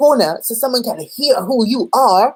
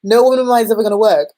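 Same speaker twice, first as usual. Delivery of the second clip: fast, louder mock-Cockney boyfriend; hammed-up Cockney, rattled off fast; slightly Cockney accent; 3 semitones higher, 5 dB louder, faster than usual. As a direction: lay down the law in slight Cockney. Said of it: "a slightly Cockney British accent".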